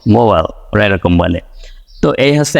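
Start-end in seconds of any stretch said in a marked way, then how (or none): 0.1-0.4 American মোবাইল; American accent. Shown as a demonstration. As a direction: do মোবাইল the American way, second vowel swallowed. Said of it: "ওরা বলে হচ্ছে".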